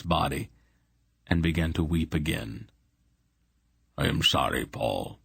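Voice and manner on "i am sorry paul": gentle. Acted. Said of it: "he said gently".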